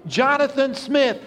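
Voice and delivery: high, long calls for a lost son; a father calling his son's name into the dark; calling out loudly. A narrator's reading. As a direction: cry the name out across the battlefield. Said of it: "crying out loudly".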